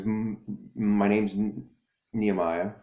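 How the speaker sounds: slow halting stammer on the name; a lightly voiced boy fighting his stutter. Boy answering the bully, slow stammering reply. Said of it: "And he stutters".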